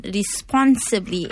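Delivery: "responsibly" set apart with a firm beat; stress on "responsibly". Real, not acted. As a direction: lean on the word "responsibly". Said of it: "emphasis on responsibly".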